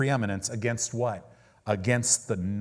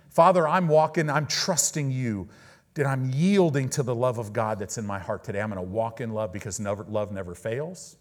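prayer; 4 dB louder than usual. Shown as a demonstration.

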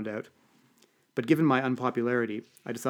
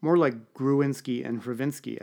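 put-on Ukrainian accent; slower than usual. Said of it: "pronouncing Hravinsky with my best Ukrainian accent".

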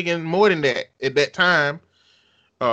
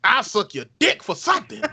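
desperate negotiator; 6 semitones higher than usual. Acted. Mock pleading loan letter.

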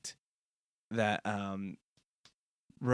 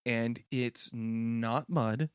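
put-on little kid. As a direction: play a kid stretching out the hints. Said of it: "when I was a kid".

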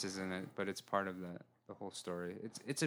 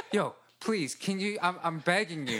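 laughing plea; 5 semitones higher, 3 dB louder than usual. Retold or imitated. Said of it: "I was like".

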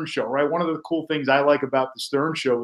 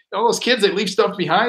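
higher, lightly mocking coworker voice; mimicking Quint; 5 semitones higher than usual. Host retelling his cohost's tie excuse, higher mock voice. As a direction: play the guy airily explaining his odd tie. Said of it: "He's like".

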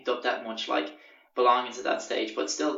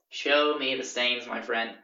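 "Show me the stains" drawn out word by word; deliberate, slow "Show me the stains"; slow challenge; slower than usual. Retold or imitated. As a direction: slowly spell out the demand "Show me the stains". Slow repeat of demand in argument.

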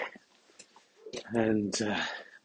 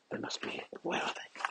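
muttered to self; 12 dB quieter than usual. Real, not acted. Searching pockets muttering.

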